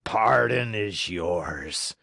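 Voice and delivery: slow gruff pardon; gruff puppet master. Acted. Showman pardoning Harlequin, slow and gruff. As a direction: grant it like a grumbling giant. Fire Eater granting.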